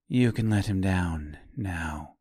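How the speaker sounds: low, soft, in control; cold calm command. Acted. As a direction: speak down to him coolly. Forest woman commands calmly.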